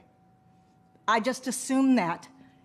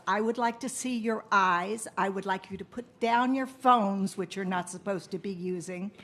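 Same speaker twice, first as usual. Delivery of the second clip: teacher voice; 2 semitones lower than usual. Acted. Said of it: "this is my teacher voice".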